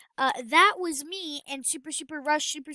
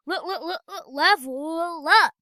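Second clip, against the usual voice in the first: stammering through laughter, slow; laughing; 3 semitones higher, 8 dB louder, slower than usual. Real, not acted. Gamer laughing as his character levels up.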